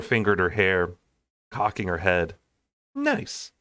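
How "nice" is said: high drawn-out nice. Acted. Mor reacts to the painted room.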